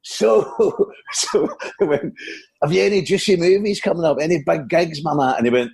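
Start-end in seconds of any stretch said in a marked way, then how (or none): 0.0-1.5 high, giggling comic filler; Billy Connolly. Acted. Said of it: "It's, it's Billy Connolly here". 2.6-5.3 lightly voiced Scottish comic; cheeky small talk as the comedian; Billy Connolly. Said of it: "It's, it's Billy Connolly here".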